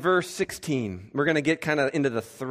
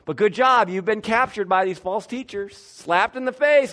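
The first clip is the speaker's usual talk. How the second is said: sarcastic praise; 5 semitones higher, 4 dB louder than usual. Acted. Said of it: "Paul's weakness has been the issue".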